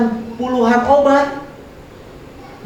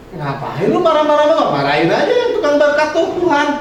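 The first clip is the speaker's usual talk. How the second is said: retorting to critic; 5 semitones higher than usual. Retold or imitated. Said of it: "Sebenarnya saya bilang".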